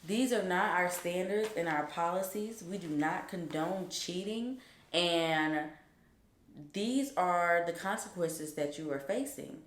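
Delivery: imitating a stern dean, quiet and even. Dean explaining consequences to a student, stern. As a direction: state the rules soberly, softly. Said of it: "stern at this point".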